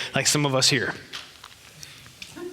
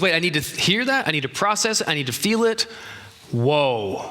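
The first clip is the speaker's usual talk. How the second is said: thoughtful processing voice. Retold or imitated. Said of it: "The kinesthetic goes".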